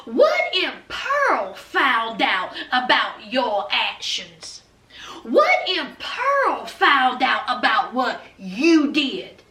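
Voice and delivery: slow, drawn-out mock threat; veiled threat. Elena threatening to expose Mia to Pearl, slowly menacing. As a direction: stretch the key words to needle her.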